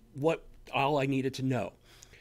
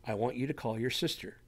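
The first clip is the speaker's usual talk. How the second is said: soft inner voice, repeated; 3 semitones lower, 6 dB quieter than usual. Retold or imitated. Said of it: "You hear that in your head".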